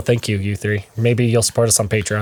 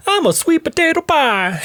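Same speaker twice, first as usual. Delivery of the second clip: put-on high, squeaky kid voice; childish voice. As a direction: play it like a small child. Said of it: "the most, like, childish voice".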